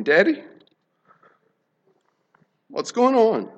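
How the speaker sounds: put-on high, frightened little boy voice; a child asking, scared and high. Son on the table asking his father, frightened high child.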